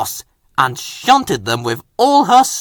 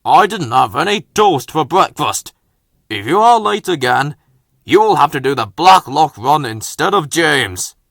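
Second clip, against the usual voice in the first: a touch of stern scolding; lightly voiced cross official; mild stern telling-off; cross boss; 4 dB louder than usual. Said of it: "The Fat Controller was cross".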